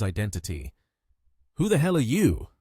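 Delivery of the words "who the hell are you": high, alarmed question; fearful demand. A narrator's reading. Sweating thug asks who the attacker is, fearful. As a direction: demand it with a touch of fear. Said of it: "as he fearfully inquired".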